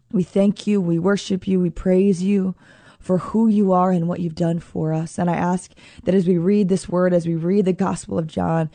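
earnest spoken prayer, unhurried; heartfelt prayer. Acted. The host praying over her listeners, earnest prayer voice. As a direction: pray aloud to Jesus for your listeners.

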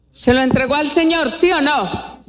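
high-pitched, pressing demand for an answer; insistent questioning. Real, not acted. Preacher asking whether they surrendered it to the Lord, insistent questioning. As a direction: push the congregation to answer.

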